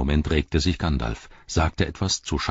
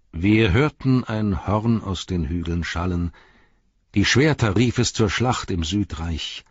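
bardic poem recital. A narrator's reading. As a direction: recite it like an old lay of mourning. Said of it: "So sang viel später ein Barde". (feierlich vorgetragenes Heldenlied)

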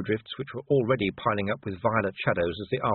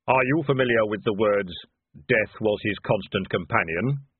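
hollow, louder solemn voice; Death; 4 dB louder than usual. Acted. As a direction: speak as calm, grave Death. Death speaks.

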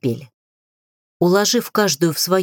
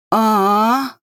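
hoarse groan of pain; 4 semitones higher, 3 dB louder than usual. A narrator's reading. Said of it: "просипела Самия".

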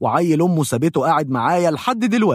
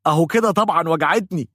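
higher, fast, nearly crying in pain; near tears; 5 semitones higher, faster than usual. Retold or imitated. Patient answers the dentist, almost crying. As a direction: whine it out through the pain. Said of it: "وأنا أكاد أبكي من الوجع".

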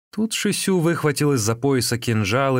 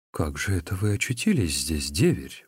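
surprised; 3 semitones lower than usual. A narrator's reading. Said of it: "удивлённо бросила женщина".

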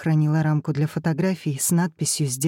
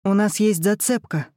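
out of breath; 3 semitones higher than usual. Acted. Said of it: "задыхаясь, выпалила Сафи".

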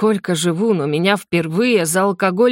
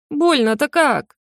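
high, slow whimper of pain; 8 semitones higher, slower than usual. A narrator's reading. Injured prince whimpers to the dragon in pain. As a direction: whine it out like a hurt puppy. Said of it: "заскулил задохлик".

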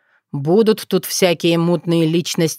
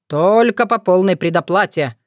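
brazen. Acted. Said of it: "нагло заявил Кощей".

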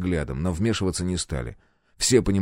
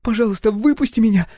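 put-on high, louder pleading girl; begging; 12 semitones higher, 4 dB louder than usual. Roxy begs from the airlock, high pleading. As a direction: beg him to let you out. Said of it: "продолжала молить она".

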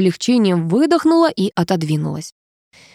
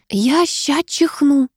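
put-on slow, higher pleading of a girl about to sneeze; slow, higher desperate plea; 8 semitones higher, much slower than usual. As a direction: beg him, fighting back a sneeze. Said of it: "взмолилась Алёна".

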